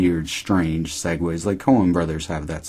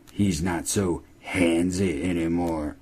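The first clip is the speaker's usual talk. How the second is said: menacing killer; 4 dB quieter, slower than usual. Pretend. Imagined killer line, slow.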